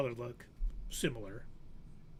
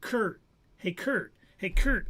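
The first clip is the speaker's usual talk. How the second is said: imitated calling out; 4 semitones higher, 5 dB louder, slower than usual. Clerk calls name, repeatedly, unanswered.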